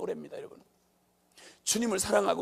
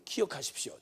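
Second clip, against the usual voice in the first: ordinary delivery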